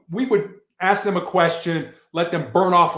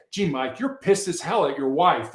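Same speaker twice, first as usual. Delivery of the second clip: frank, direct and down to earth; name his anger straight out; blunt empathy. Shown as a demonstration. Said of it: "You've gotta get down in the mud".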